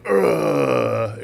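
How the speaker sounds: drawn-out mock growl; imitated video grunt. Retelling a video of man and baby, imitated growl. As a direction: imitate a long throaty "ugh". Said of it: "the guy's going".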